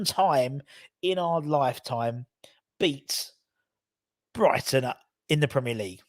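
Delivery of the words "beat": a whispered "beat" after a pause. Real, not acted. Hoping to beat Brighton at last, a suspenseful whisper.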